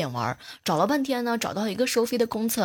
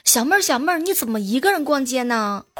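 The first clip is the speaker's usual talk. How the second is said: calling out; 3 semitones higher, 4 dB louder than usual. Retold or imitated. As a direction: call her name from afar. Acquaintances calling out her name.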